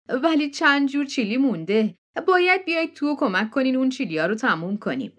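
high, eager hostess voice pressing them in; a pushy country hostess insisting they come in; June's insistent welcome. Acted. Hostess June pressing the guests to come inside, high and eager. June offers leftover chili.

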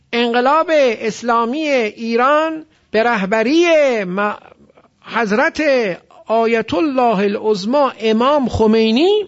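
slow, high chain from "انقلاب" to "خمینی", each linking -e held; linking kasra. Shown as a demonstration. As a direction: show the -e joins in "انقلاب اسلامی ایران" deliberately.

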